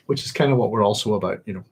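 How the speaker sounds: talking through hiccups; words broken by hiccups. Real, not acted. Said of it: "got the hiccups".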